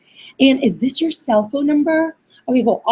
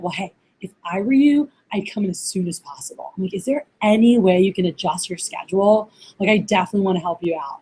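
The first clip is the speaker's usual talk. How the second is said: helpful; 3 semitones lower than usual. Shown as a demonstration. Recruiter helping applicant find a time, helpful and low-key. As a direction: gently offer to help them out. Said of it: "how you say it when you go".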